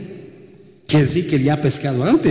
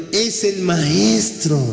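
slow, drawn-out, raised realisation; dawning amazement; 4 semitones higher, much slower than usual. Acted. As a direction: let the recognition stretch out in awe. Disciples astonished on recognising the master. (asombro lento, tono elevado)

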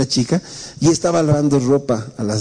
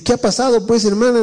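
pastor preguntando; 7 semitones higher than usual. Retold or imitated.

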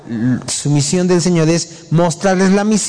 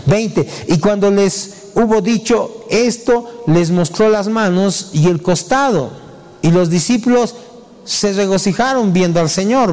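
raised, measured Bible reading; higher-pitched recitation with phrase pauses; scripture reading; 6 semitones higher than usual. Acted. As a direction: read the verses out deliberately. Reads scripture aloud.

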